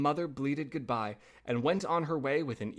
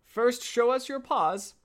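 put-on high, slow, louder kid voice; little goat kids; 11 semitones higher, 5 dB louder, slower than usual. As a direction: demand it in a high child-goat voice. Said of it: "said the kids".

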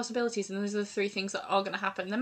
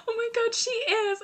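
surprised; 13 semitones higher, 4 dB louder than usual. Real, not acted. Sudden realisation after a gasp.

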